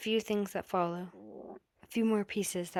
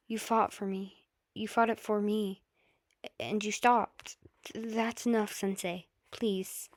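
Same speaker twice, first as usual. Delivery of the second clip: desperate plea. Acted. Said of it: "with conviction, desperation, challenge".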